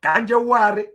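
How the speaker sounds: lightly voiced Anambra man; Anambra dialect. Shown as a demonstration. Teacher quoting an Anambra man to show dialects, Anambra dialect. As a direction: say it in Anambra Igbo. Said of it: "Anambra man will say".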